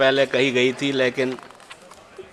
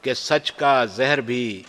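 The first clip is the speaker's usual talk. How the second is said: stately nazm recitation. Acted. Poet recites his nazm.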